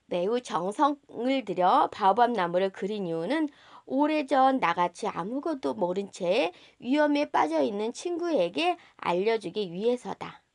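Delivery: ordinary delivery, nothing marked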